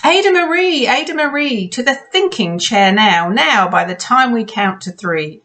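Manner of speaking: stern parental scolding. Acted. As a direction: call the child to order. Parents scolding their child.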